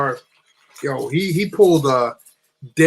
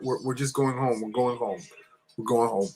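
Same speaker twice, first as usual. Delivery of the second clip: soft, low, timid answer; meek reply; 3 semitones lower, 8 dB quieter than usual. Retold or imitated. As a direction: imitate a scared kid placating a cop. Scared kids answer armed cop.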